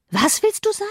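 put-on high, wondering girl's voice; puzzled question. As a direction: ask in honest astonishment. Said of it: "fragte Catherine verwundert". (hohe, verwunderte Mädchenstimme)

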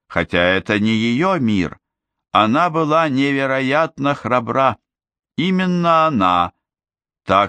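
a noble princess addressing her people; regal princess voice. Acted. Ozma's speech to the crowd.

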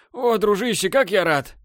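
высокий громкий восторг; обними голосом, от радости; радостный возглас. Acted. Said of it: "заорал он". (радостно заорал)

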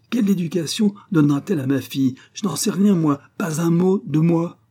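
high, loud, outraged rant; indignant rant. Acted. The count rages to his wife about the aunt's letter, loud and outraged. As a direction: fume and sputter at the letter.

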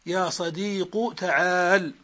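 صديق ends in a short u, very slow; dhamma ending. Shown as a demonstration. Teacher repeating the example for students, slow dhamma ending. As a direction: drop the ya, close صديق on u. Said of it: "بحذف الياء وضم آخر الاسم".

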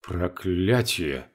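slow, soft hissed curse; hissing curse. Acted. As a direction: hiss it under breath. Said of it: "и зашипел".

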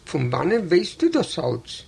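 ordinary delivery

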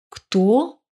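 a touch of a startled question; surprised. A narrator's reading. Artyom woken at night by a call, mildly surprised. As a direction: ask it puzzled, caught off guard. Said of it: "удивился он".

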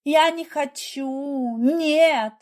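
slow, high, pleading cry; desperate refusal. A narrator's reading. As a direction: refuse through panic. Wife refuses hospital.

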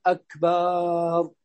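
أكبر stretched into "akbaaar"; lengthened baa. Shown as a demonstration. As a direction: hold a long aa after the b of أكبر. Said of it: "أو الباء". (مد الباء في "أكبر")

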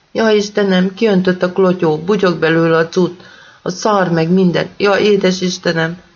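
high, frantic panic; panicked. Acted. Nésa on the phone, panicking as the toilet overflows. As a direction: wail it out in terror.

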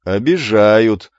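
slow, loud drawn-out mockery; mocking echo. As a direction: echo the boy to mock him. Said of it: "дружно подтвердили пострадавшие".

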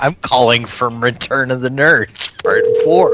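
nerdy caller bit, pushed up; fake nerd voice. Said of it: "a particular fake nerd voice".

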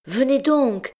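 high, loud call after him. A narrator's reading. Girl calling the retreating hunchback back, loud and high. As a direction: call him back before he's gone. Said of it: "cria-t-elle".

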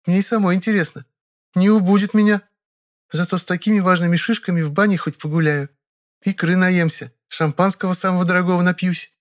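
put-on a young woman sharing news; girlish, chatty Vera; Vera chatting. A narrator's reading. Vera's voice.

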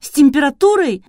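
high, loud indignant snap; flaring up. A narrator's reading. Girl flares up at Artur's guess, loud. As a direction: flare up at him. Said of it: "взвилась она".

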